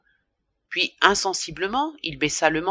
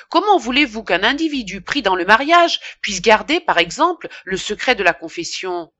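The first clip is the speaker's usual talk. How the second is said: heated argument; 3 semitones higher, 5 dB louder than usual. Acted. Priest arguing with pharmacist.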